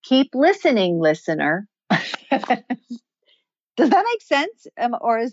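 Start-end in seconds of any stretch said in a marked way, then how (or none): 0.0-1.7 "listening" held up, then "listener" drops; comma inflection. Shown as a demonstration. Voice coach shows "listening" inflected at a comma. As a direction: lift at the comma after "listening", settle on "listener". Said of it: "we inflect our voice at that comma to say".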